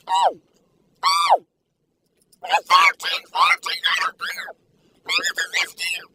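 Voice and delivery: high and loud rapture; ecstatic. Real, not acted. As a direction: burst out with delight. Rating the cookie in rapture.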